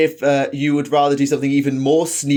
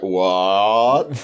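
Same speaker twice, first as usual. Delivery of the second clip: baffled pupils' what; 4 semitones lower than usual. Retold or imitated. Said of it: "They're like".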